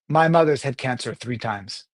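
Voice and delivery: low, sober statement; dramatic opening. Shown as a demonstration. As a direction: deliver it gravely and let it land. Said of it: "open up a very dramatic story".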